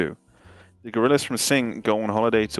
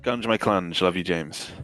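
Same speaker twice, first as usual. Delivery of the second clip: ice in mouth. Real, not acted. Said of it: "I just gotta crunch this ice a sec".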